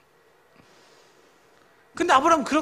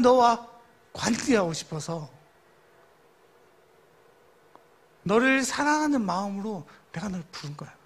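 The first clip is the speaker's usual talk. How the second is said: God's tender voice. Retold or imitated. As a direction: speak tenderly, reassuring a beloved son. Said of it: "이렇게 말하는 거예요". (부드럽고 다정하게 타이르듯)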